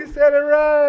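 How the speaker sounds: loud, high burst of laughter; cracking up at the crowd story; big laugh. Real, not acted. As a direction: laugh it out, delighted. Laughing at the pronunciation.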